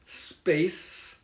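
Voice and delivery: "Space", pause, "Mountain"; slow model pronunciation with a gap after "Space"; careful repeat. Shown as a demonstration. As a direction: say "Space Mountain" as two separate words. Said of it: "can you say the word again".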